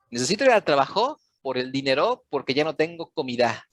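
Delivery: fast Spanish with "trabajo", "dinero", "comida" stressed on the last syllable; misplaced word stress. Shown as a demonstration. Tutor mimics misplaced stress in Spanish, trabajo, dinero, comida stressed on their endings. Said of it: "Suena como a eso".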